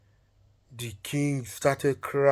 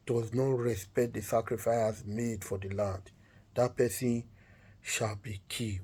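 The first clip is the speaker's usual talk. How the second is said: slow, measured last request; solemn decree; 3 semitones lower than usual. Acted. Wife gives her last command to the king, solemn and slow. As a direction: pronounce it slowly, with long pauses.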